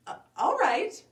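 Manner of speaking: high, hesitant agreement; doubtful little girl. Acted. Red Riding Hood unconvinced by Grandma, doubtful little girl.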